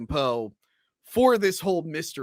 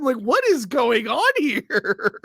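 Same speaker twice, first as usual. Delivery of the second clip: mock accent carrying on; 7 semitones higher, slower than usual. Still mocking the bad accent.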